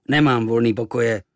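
mild gruff innkeeper bark. Acted. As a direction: snap him away. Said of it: "houkl na mě".

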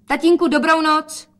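put-on girl's goodbye. Daughter says goodbye.

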